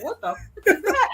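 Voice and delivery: high, laughing shocked question; laughing disbelief. Retold or imitated. Coworker gawking at Grace's call, laughing disbelief. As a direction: blurt it out through laughter.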